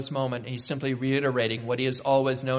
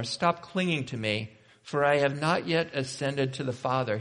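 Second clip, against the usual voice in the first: gentle. Acted. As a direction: let go of them gently, without force. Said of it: "he says it so gently".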